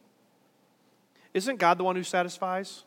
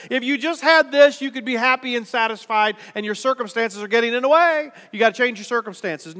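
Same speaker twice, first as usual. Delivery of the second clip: raised, louder voice of the tempting world; mildly acted, higher-pitched urging; lightly voiced worldly voice; 5 semitones higher, 6 dB louder than usual. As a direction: push it insistently, as the world would. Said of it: "The world says".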